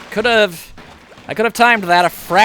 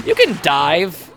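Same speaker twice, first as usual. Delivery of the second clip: mock offhand announcement. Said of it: "the game decides".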